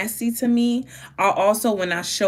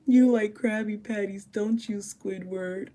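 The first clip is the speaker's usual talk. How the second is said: teasing SpongeBob; 4 dB quieter than usual. Retold or imitated. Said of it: "And SpongeBob said".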